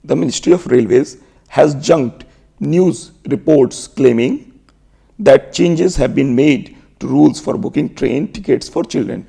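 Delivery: slow, measured English reading; slow dictation reading. Shown as a demonstration. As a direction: spell it out word by word at half speed. Reading the news sentence slowly.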